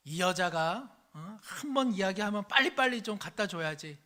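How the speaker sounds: 직원들 앞에서 아내에게 소리치는 남편, 짐짓 큰 목소리로; 위신 세우려고 목청을 높여; 화난 남편의 큰 소리. Acted. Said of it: "그래서 큰 목소리로". (직원들 앞에서 아내를 나무라는 남편, 큰 목소리로)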